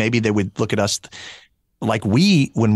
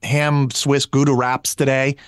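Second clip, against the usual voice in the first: imitated daughter's curt drive-thru order, pitched up; short, brusque ordering; 5 semitones higher, 3 dB louder than usual. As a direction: rattle it off in a higher voice, all business. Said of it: "she's kinda short about that".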